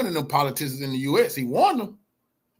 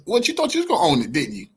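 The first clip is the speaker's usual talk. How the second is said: mocking taunt; faster than usual. Real, not acted. Mocking a senator on stream.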